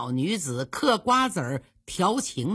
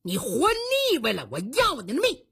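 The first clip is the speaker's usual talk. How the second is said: acted threat; 3 semitones higher than usual. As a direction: threaten to kill, pitch raised. Gunman threatens his target.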